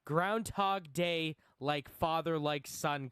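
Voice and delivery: slow, grand trailer read; trailer announcer voice. Acted. Slow dramatic title vs plain.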